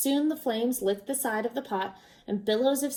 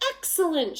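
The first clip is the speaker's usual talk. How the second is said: shouted joy; 6 semitones higher than usual. A narrator's reading. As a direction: cheer them on. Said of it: "shouted the travelers".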